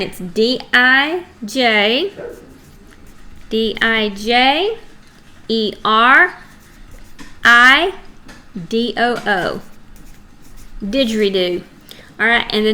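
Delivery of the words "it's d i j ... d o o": slow, letters spelt out one by one; spelling for the children as she writes. Shown as a demonstration. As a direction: spell each letter with pauses in between. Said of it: "I'm gonna write that down".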